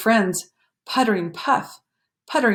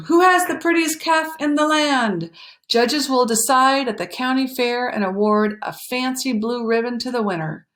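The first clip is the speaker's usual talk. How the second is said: raised, announcing reading of the poster; poster read aloud; 5 semitones higher than usual. Acted. Farmer reads poster aloud.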